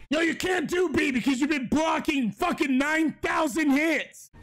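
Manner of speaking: raging gamer. Real, not acted. Raging at the game.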